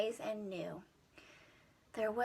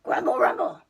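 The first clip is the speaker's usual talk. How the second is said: louder, higher booming rumble; loud grumble; 5 semitones higher, 10 dB louder, faster than usual. Acted. Storyteller booming the monster's noise at the child. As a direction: boom it out big.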